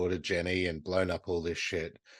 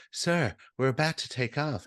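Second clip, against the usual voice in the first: steward's warning; 6 semitones higher than usual. Retold or imitated. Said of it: "the steward is like".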